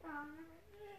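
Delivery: upset, pleading moan; tearful whine. Real, not acted. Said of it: "Para de chorar, menino".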